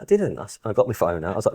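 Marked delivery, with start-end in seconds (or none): 0.0-0.4 much higher mimicked denial; mock denial. Imitating Tom's denial, high and teasing. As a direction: squeak out a cheeky denial. Retold spat, Tom denies again.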